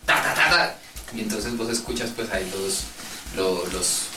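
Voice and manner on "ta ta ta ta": rattled-off "ta-ta-ta" gunfire; imitated gunfire. Gamer telling friends about killing everyone, imitated gunfire. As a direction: mimic a burst of shots, pitched up.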